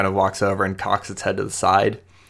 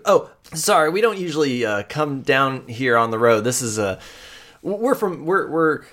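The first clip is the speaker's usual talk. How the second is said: put-on higher, flustered young woman brushing off help; nervous Amoya; 5 semitones higher than usual. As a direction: stammer out that she's fine, pitched up.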